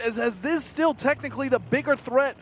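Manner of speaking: excited play-by-play. Real, not acted. Caster calls the fight live.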